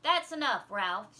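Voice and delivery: put-on teacher silencing a rowdy boy; stern rebuke. A narrator's reading. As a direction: cut him off firmly. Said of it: "she said".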